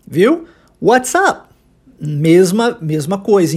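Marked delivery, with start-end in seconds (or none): 0.8-1.5 "What's up" with T-S sounded, P unreleased; swallowed final P. Shown as a demonstration. Teacher showing the same thing again, final P swallowed. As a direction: keep the T in "What's up" but swallow the P. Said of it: "engolindo o som desse P".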